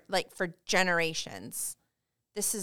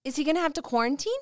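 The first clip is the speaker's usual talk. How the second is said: real anger; 2 semitones higher than usual. Real, not acted. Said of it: "I am so mad right now".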